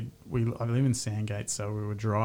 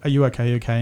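manic worry; 6 dB louder, much faster than usual. Retold or imitated. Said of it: "looked like a manic person".

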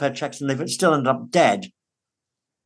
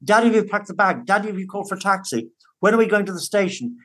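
imitating an eager, higher child's pestering; mild impression of an excited son, higher and eager; excited little boy; 5 semitones higher, faster than usual. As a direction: bounce through the questions like a kid who can't wait. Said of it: "He was so excited".

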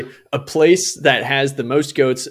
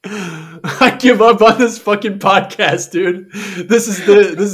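mock despair; 5 semitones higher, much slower than usual. Mock despair over podcast glitches.

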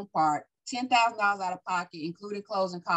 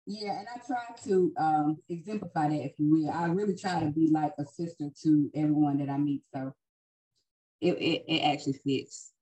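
distant, faint mic sound; speaking away from the mic; far from mic; 3 semitones lower than usual. Real, not acted. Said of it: "you sound like you're, you're far away from us right now".

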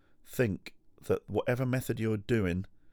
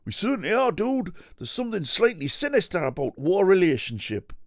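much higher and louder, cheery TV cook; bouncy northern cookery-show host; high Hairy Biker voice; 10 semitones higher, 7 dB louder than usual. Pretend. Playing one Hairy Biker to the other, high and loud.

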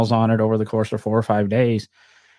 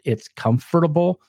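northern accent; 4 semitones higher than usual. Real, not acted. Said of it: "I guess I say comfortable weird".

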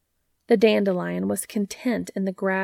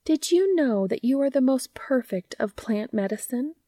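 lullaby-like gardener; 5 semitones higher than usual. Acted. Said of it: "The gardener's voice drifted over the dandelion, a lullaby".

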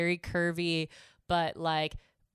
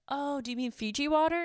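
retold realization; 9 semitones higher than usual. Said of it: "And I was like".

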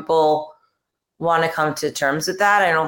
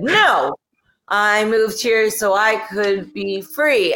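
mock defiant claim; 4 semitones higher, much slower than usual. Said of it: "and I said".

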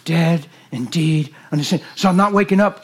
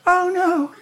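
hamster panic; 11 semitones higher than usual. Pretend. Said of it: "he goes".

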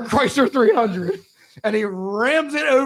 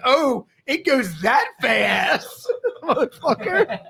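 slow, laughing mock shout; 4 semitones higher, slower than usual. Mocking speeding driver.

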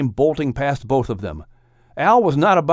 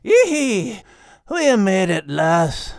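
exclaimed; 6 semitones higher, slower than usual. Acted. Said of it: "dry sand and exclaimed".

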